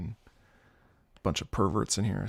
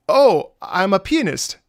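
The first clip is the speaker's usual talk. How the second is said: lightly voiced old lady, higher and slow; a hint of an elderly teacher, drawn out; 7 semitones higher, 7 dB louder than usual. Old substitute teacher introduces herself to the class, mildly old-lady voice. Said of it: "like, an old lady".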